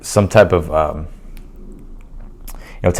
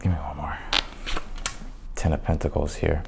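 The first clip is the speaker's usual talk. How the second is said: losing voice; 2 semitones lower, 12 dB quieter than usual. Real, not acted. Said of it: "losing my voice or something".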